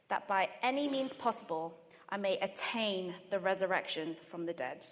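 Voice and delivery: earnest, measured Bible reading; scripture reading. Acted. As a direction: read the passage with weight. Reads scripture aloud.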